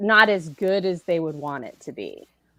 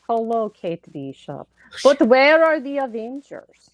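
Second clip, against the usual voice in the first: Russian accent; 3 semitones higher than usual. Shown as a demonstration. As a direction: say it like a Russian villain. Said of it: "you want me to do it".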